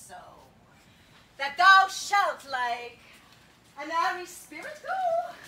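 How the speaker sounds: dramatic Shakespeare reading; theatrical verse recitation. Acted. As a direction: recite it like a stage fairy queen.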